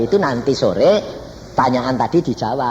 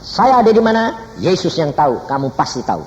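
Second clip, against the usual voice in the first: preaching quote; 5 semitones higher than usual. Retold or imitated. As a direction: proclaim it to the congregation. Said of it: "Saya berkata".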